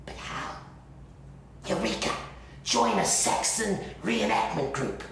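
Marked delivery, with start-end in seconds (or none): 1.7-5.0 higher and louder, a sudden bright idea; excited eureka. Acted. Man recalling his big idea to the camera, excited proclamation. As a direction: announce the brainstorm like a discovery.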